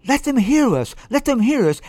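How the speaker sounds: high, loud cheering chant; excited exclamation. A narrator's reading. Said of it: "exclaimed the excited viola section".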